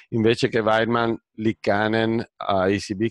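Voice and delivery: holding back a laugh; amused, suppressing giggles; trying not to laugh. Real, not acted. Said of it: "che mi scappa da ridere". (trattenendo una risata)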